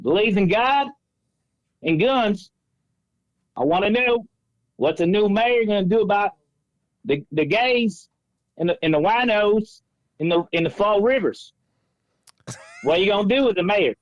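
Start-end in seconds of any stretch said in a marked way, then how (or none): 0.0-11.5 fake Southern accent. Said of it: "the terrible Southern accent".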